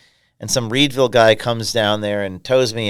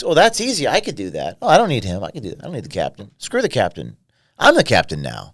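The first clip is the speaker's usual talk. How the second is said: mock cocky crewman. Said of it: "the other guy thinks".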